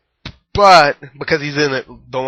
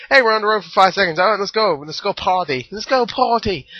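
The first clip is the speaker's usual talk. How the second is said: mock party hype; 6 semitones higher than usual. Mock party-guys quote.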